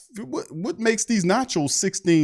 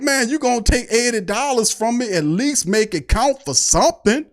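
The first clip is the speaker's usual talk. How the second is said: mock indignant; 5 semitones higher than usual. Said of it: "I'm like".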